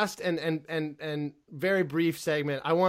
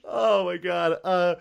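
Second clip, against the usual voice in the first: after laughing hard. Real, not acted. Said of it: "I need to compose myself".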